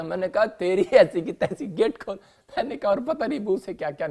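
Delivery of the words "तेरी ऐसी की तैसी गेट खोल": mock angry outburst. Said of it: "गुस्सा आ गया।".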